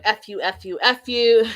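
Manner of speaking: mock yell building to a shout; retold screaming. Wife screaming at her fiancé, a mock shout. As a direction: end loud on the last F you. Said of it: "Screaming at him".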